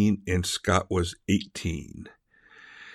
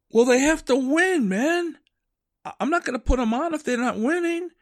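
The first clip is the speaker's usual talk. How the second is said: much higher, projecting TV sportscaster voice, lightly imitated; Rich Eisen announcer voice. Sportscaster on the phone with a fan's teenage son, mock announcer voice. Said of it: "He goes into his announcer voice".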